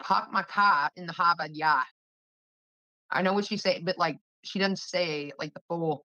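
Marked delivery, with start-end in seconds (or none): 0.0-1.9 R-less East Coast "pahk my cah"; imitated East Coast accent. Showing how she would say it, imitated East Coast accent. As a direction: say it like an East Coaster, every R dropped. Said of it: "She would say it like this".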